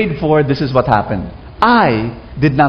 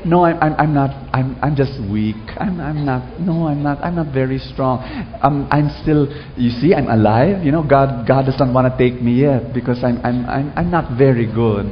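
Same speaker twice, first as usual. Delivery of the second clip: weak self-pitying mumble; 3 semitones lower than usual. Retold or imitated. Mocking people who call themselves weak, small and stammering. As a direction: stammer like someone who thinks they're worthless. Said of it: "people who say".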